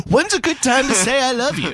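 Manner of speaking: high, sweet mock question; high mock innocence. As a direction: squeak it out like a shy teen. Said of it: "now we're like".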